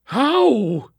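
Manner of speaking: high, loud, cracking; unraveling. A narrator's reading. Captain near breaking, asking Lakely, high and loud. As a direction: nearly come apart on the word. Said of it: "almost unraveling as he asked".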